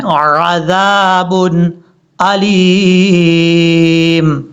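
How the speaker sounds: अज़ाबुन with a clear, distinct ain. Shown as a demonstration. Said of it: "आइन को clear करना है". (अज़ाबुन में आइन साफ़ पढ़ें)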